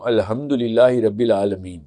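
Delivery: الحمدللہ رب العالمین slowly with plain Urdu sounds; wrong Pakistani reading. Shown as a demonstration. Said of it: "میں دونوں ہی غلط پڑھتا ہوں".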